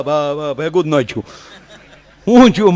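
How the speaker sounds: ordinary talk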